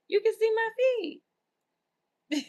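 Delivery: high, slow, drawn-out incredulous question; slow mock incredulity; exasperated disbelief. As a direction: stretch it out, baffled. Repeats the comment, exasperated.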